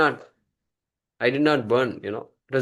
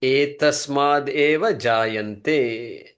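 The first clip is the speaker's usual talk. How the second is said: very slow chant-like reading of the Sanskrit; slow recitation; much slower than usual. Shown as a demonstration. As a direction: read the verse slowly for the class to repeat. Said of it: "Watch the moolam".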